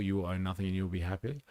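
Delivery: quick sardonic quote of a slogan; quick mock quote. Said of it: "that type of philosophy".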